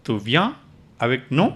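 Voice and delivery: Tu viens then avec nous, nous rising; teacher breaks the question into parts, rising. Shown as a demonstration. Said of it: "your voice goes up".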